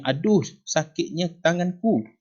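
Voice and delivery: high, drawn-out mock ouch; pained exclamation. Shown as a demonstration. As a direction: act out a hurt hand, slowly. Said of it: "untuk menyatakan perasaan sakit".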